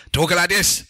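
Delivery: mock uneven delivery. Shown as a demonstration. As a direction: imitate co-hosts talking up into the mic. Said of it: "I give up with you people talking".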